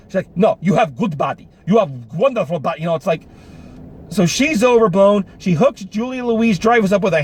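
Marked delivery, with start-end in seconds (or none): 0.4-2.8 mock Swedish accent. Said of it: "exaggerated Swedish accent".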